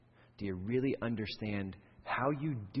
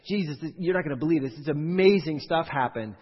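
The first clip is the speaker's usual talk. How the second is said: excited report; 4 semitones higher, 5 dB louder than usual. Retold or imitated. Disciples report back to Jesus.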